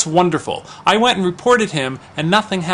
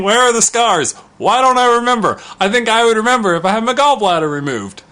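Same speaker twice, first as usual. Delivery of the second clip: incredulous friend; 6 semitones higher, 3 dB louder than usual. Retold or imitated. Friend retold arguing with hospital.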